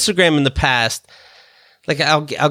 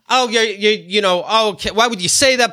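mock whiny voice, pitched up; mocking her whine; 7 semitones higher than usual. Teller mocks ex's innocent act, pitched-up whine. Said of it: "she does that thing".

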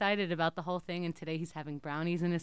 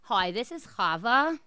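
put-on Jewish accent, slow and louder for a prank call; 3 semitones higher, 6 dB louder, slower than usual. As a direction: play a New York Jewish mother with a heavy Jewish accent. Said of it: "I'm gonna be in an accent, in some Jewish accent".

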